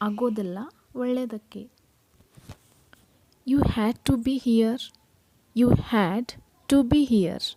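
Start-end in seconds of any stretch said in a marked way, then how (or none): 3.5-4.8 very slow, each word spaced apart; slow model reading. Shown as a demonstration. Teacher models the sentence slowly for her students. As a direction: read it slowly so the learner can copy. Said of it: "teacher models a sentence slowly".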